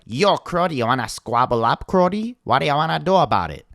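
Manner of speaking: hammed-up Toronto tough-guy accent; Toronto mob boss accent. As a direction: imitate a Toronto mob boss picking a fight. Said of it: "yelling threats back at them in a Toronto mob boss accent".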